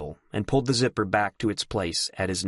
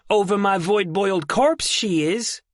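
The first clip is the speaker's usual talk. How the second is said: higher, hard-edged vow with venom; cold, determined; 11 semitones higher, 5 dB louder than usual. A narrator's reading. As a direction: spit it out like a promise of revenge. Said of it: "in a cold, determined voice".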